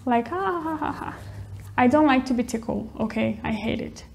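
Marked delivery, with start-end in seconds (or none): 0.3-1.2 giggling. Shown as a demonstration. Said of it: "make them giggle".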